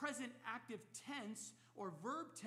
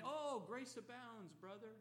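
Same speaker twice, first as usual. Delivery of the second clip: mock rationalizing. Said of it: "don't be rationalizing".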